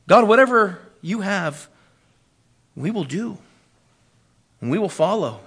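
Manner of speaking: measured prayer, softening as it goes; submissive prayer. Acted. Preacher praying from a heart of submission, submissive. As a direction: yield to God in short, paused phrases. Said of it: "come from a heart of submission".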